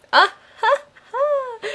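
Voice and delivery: high, chopped laugh at the pun; laughing at own pun. Real, not acted. Player laughing at her eggs pun, high laugh. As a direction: cackle at your own joke.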